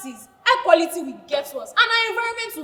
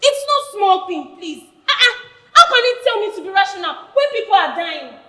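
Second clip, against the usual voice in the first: indignant; 5 dB louder than usual. Acted. Refusing to calm down.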